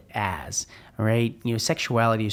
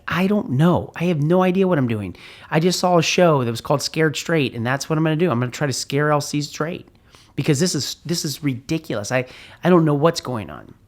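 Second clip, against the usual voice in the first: higher, louder, flustered rush; frantic; 5 semitones higher, 4 dB louder than usual. Retold or imitated. Father answering his wife, frantic and raised. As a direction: blurt it out in a panic.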